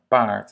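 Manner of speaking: Part with a long A. Shown as a demonstration. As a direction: hold the A in Part. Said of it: "Un A long". (« Part » avec un A long)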